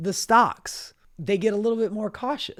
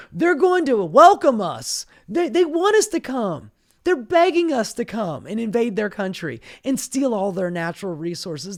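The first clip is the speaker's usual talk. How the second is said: mock right-winger; 4 semitones higher, 4 dB louder than usual. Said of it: "right-wingers on the media as we speak going".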